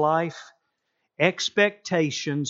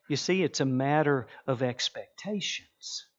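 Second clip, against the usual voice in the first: whisper; 2 semitones lower, 5 dB quieter than usual. Acted. Preacher drops to whisper.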